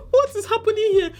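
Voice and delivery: squealed high in disbelief; outraged shriek of disbelief; shocked disbelief. Real, not acted. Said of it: "repeated take".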